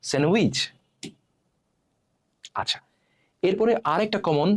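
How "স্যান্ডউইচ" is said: স্যান্ডউইচ with silent d, "sen-wich"; correct pronunciation. Shown as a demonstration. Teacher giving learners the right form, correctly pronounced. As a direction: drop the d in স্যান্ডউইচ. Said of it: "কি উচ্চারণ হবে".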